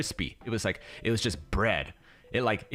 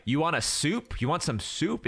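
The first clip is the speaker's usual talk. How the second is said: casual waiter; 6 semitones higher than usual. Retold or imitated. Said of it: "If he said it like that".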